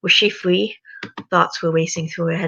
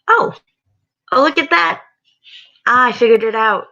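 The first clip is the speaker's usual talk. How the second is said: high delighted exclaim; thrilled she figured it out; excited; 7 semitones higher, 6 dB louder than usual. Real, not acted. Finally fixes screen.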